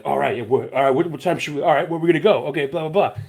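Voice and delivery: mildly excited, stumbling over questions; mock someone getting hyped before an outing; imitating hyped-up friend. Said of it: "you were getting hyped".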